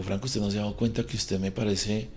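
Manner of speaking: put-on the girl tells Franco he is disgusting, hushed and cutting; cruel verdict. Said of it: "Me dijo".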